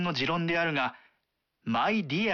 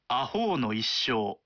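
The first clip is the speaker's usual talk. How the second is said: weighty reading; 4 semitones lower than usual. Shown as a demonstration. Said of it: "と重々しく読まないと".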